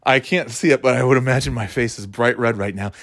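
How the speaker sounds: slightly winded talking; out of breath. Real, not acted. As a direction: speak a little out of breath. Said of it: "I'm a little out of breath from getting up off the couch".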